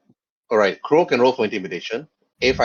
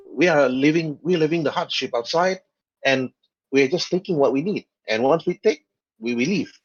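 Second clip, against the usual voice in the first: Jawa character; 3 semitones higher than usual. Acted. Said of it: "The Jawas actually speak back".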